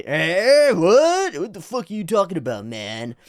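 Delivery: loud, high, indignant challenge; hostile tough guy. Retold or imitated. Scary people reacting to a passer-by, loudly hostile. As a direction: imitate a street tough taking offence.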